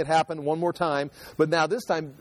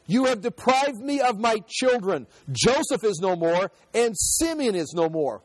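higher, lamenting cry of loss; grieving old father; 5 semitones higher than usual. Acted. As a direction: mourn for the sons he has lost.

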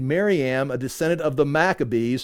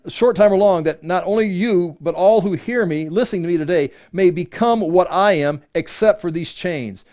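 scripture reading; 3 semitones higher, 3 dB louder than usual. Acted. Paul answering Agrippa before everyone listening, emphatic scripture reading. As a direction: proclaim it to the whole room. Reads Paul's answer aloud.

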